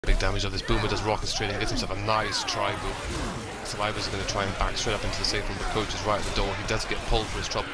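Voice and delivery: brisk live play-by-play call; esports caster. Acted. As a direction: call the action as it happens.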